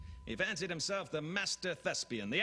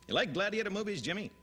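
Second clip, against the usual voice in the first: Peter Graves; 6 semitones higher, faster than usual. Retold or imitated. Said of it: "Peter Graves".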